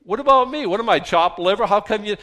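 high, loud whiny complaint; kvetching, chopped liver style; yiddish accent. Retold or imitated. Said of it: "all my friends say".

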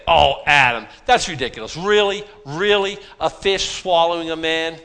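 loud, scoffing disbelief; mocking skeptic. Skeptics scoffing at Adam, loud mock disbelief. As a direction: scoff at him, incredulous and loud. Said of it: "People say".

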